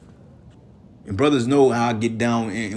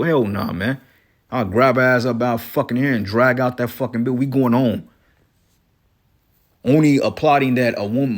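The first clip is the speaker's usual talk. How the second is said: loud angry rant; 5 dB louder than usual. Real, not acted. Ranting about his woman.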